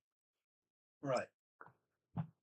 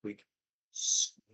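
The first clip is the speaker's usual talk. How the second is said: squeak; 2 semitones lower than usual. Retold or imitated. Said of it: "instead of actually squeaking".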